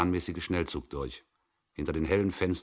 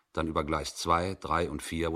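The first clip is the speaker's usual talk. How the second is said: ordinary delivery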